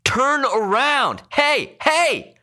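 very high, furious yells; devilish shouting. A narrator's reading. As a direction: yell it like a man possessed. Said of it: "shouting in his devil's voice".

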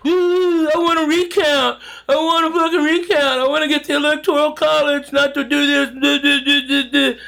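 high whiny mock complaint; mock whiny crying. Mocking Democrats whining about the recount, high and whiny. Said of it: "are all fucking crying".

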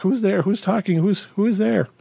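urgent but contained imitated yell; retold yelling. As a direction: re-enact calling out to unseen voices. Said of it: "and then I'm yelling".

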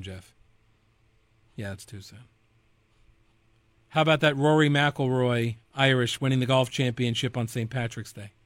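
ordinary talk

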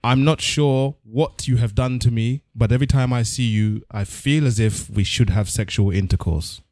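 slow, solemn poem reading; poem recital. Pretend. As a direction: recite it slowly like grand poetry. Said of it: "a short excerpt from a poem".

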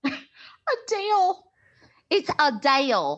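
the name said slow and high with a T sound, uh-TAIL; correct pronunciation of the singer's name. Shown as a demonstration. Demonstrating the right pronunciation to her cohost, uh-TAIL. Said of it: "It's supposed to be the singer's name".

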